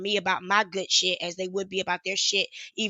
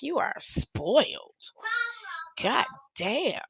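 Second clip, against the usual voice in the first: scolding; 6 semitones higher, 5 dB quieter, slower than usual. Retold or imitated. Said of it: "I was like".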